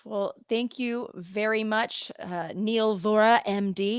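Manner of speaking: slow, drawn-out "Neil Vora, M D."; stress on Neil Vora. Real, not acted. Host formally crediting the guest's name and title slowly. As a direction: draw out "Neil Vora, M D." with ceremony. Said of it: "You gotta say it like that".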